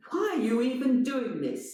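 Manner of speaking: high, pointed question; lightly voiced intruder challenging. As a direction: demand an answer. Intruder confronts actor.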